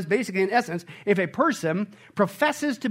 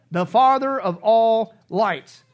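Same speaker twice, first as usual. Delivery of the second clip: slow, louder proclamation; proclaimed slowly; 6 dB louder, slower than usual. Real, not acted. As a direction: ring it out slowly. Proclaiming the source.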